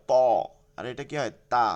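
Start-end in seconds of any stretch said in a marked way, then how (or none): 0.1-0.1 ত said full and thick. Shown as a demonstration. Teacher telling students to keep letters apart, thick ত. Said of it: "এটা মোটা হয়". 1.5-1.7 তা said thin. Shown as a demonstration. Teacher asking how the other one goes, thin তা. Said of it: "চিকন, তা হয়".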